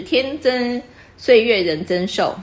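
reads each syllable slowly and evenly, like reciting verse; slow couplet recitation. Shown as a demonstration. Teacher reciting a couplet example to the student, slow and measured. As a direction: savour the couplet one word at a time. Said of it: "最常讲的一个春联就是".

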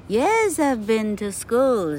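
put-on high, eager little boy insisting; sweetly fib like a naughty puppet. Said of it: "said Pinocchio".

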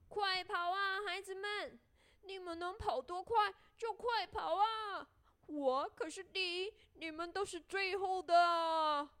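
high, gleeful storybook calling; laughing shout. A narrator's reading. Gingerbread man teasing his pursuers, laughing shout. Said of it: "姜饼人笑着大喊说".

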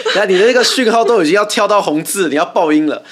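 laughing, calming. Real, not acted. Co-host calming the host before her mic clips, laughing. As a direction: settle her down through a laugh.

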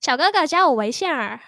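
mock Beijing erhua; Beijing accent. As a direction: curl the er into every ending. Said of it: "有点北京腔了".

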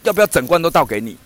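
咄咄逼人地连声追问; pushy vendor. Retold or imitated. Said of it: "然后他马上就说". (老板高声连连追问要不要整罐倒)

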